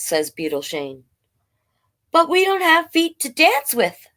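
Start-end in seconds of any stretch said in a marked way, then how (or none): 2.1-4.1 higher worm voice, protesting; worried worm. Acted. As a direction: point out the problem plaintively.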